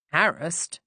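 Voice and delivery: doubtful echo of the word "Harassed?", falling at the end; a mildly skeptical, falling "Harassed?"; skeptical repeat. Acted. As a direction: repeat "Harassed?" as if you don't quite buy it. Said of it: "Inspector Jones repeated skeptically".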